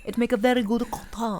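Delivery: mock French. Woman playing up her slip, mock French. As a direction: put on French for "very good content". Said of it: "Why did you go French".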